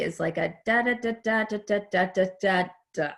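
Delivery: da da da over the sentence tune, falling at the end; sing-song intonation. Shown as a demonstration. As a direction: hum out the melody of a sentence. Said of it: "the intonation in the English language typically".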